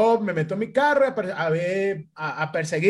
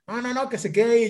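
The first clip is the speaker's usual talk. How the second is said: higher-pitched, quick protest; retold refusal; 5 semitones higher, faster than usual. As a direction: fend it off quickly in a raised pitch. (negativa rápida y aguda, imitada)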